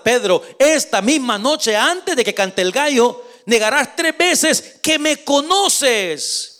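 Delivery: lightly voiced Jesus, drawn out and solemn; Jesus foretelling. Jesus telling Peter he will deny him, solemn and slow. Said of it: "Jesús respondió".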